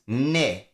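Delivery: ne said on its own, firm; ne, set apart; stressed syllable alone. Shown as a demonstration. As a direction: isolate the syllable ne from ignition. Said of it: "the stress of ignition is".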